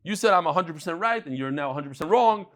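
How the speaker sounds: a hint of a gloating debater. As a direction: gloat over a rival you've beaten. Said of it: "You start dancing".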